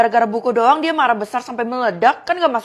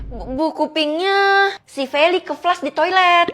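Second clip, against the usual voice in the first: nervous confession; 3 semitones higher, slower than usual. Acted. Confesses fearfully.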